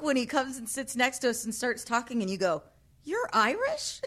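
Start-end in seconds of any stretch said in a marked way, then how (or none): 3.0-4.0 high-pitched retold disbelief; surprised question. Friend quoting her reaction to the Irishman, surprised. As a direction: blurt it as an incredulous question.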